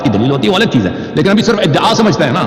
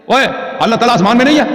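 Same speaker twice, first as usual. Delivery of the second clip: higher, fast and incredulous; mock disbelief; 6 semitones higher, faster than usual. Debater scoffing at his opponent's belief, mock incredulous. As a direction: toss it back as if it were absurd. Mocking repeat of opponent's claim.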